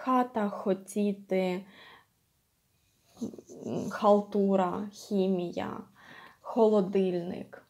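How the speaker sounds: х in Хата, хотіти, халтура as light unvoiced breath; slow model words, just exhaling each х; voiceless exhaled х. Shown as a demonstration. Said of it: "Just exhaling h".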